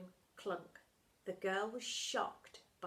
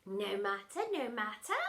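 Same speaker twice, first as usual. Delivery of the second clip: purring. Acted. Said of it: "purred the dinner lady".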